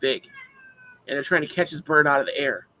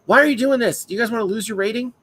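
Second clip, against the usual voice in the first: higher, louder mock outrage; indignant heckling; 8 semitones higher, 5 dB louder than usual. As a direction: heckle them with raised, incredulous pitch. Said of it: "bust their balls".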